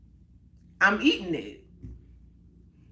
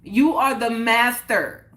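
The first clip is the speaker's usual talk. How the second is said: slow, louder and emphatic on YOU; a little louder; 4 dB louder, slower than usual. Shown as a demonstration. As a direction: drive it home to the chat, slowly and louder. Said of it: "Let me say it a little louder for the people in the chat".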